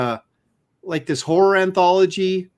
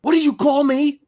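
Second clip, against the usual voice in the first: a higher, stung what did you call me; offended demand; 8 semitones higher than usual. Retold or imitated. Landis's son confronting the artist at his booth, stung demand. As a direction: demand it like he's been insulted. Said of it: "he looks at me and he goes".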